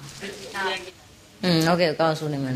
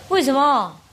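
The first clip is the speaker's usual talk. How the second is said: mock-alarmed mum asking what happened; mother hears her son won't go to school, startled; mother surprised; 7 semitones higher than usual. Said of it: "妈妈说".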